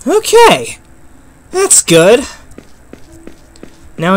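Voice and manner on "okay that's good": breathless relief. Real, not acted. Relief after escape.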